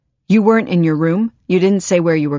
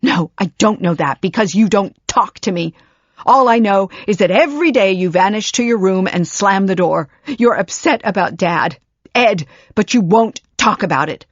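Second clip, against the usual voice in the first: anguished tirade; 3 semitones higher, 5 dB louder than usual. Acted.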